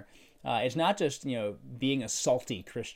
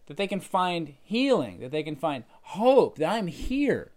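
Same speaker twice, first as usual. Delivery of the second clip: higher, louder proclamation of good news; Jesus speaking; 6 semitones higher, 6 dB louder than usual. Retold or imitated. Jesus announcing good news to the people, raised and fervent. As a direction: speak as Jesus declaring real healing. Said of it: "So he's saying".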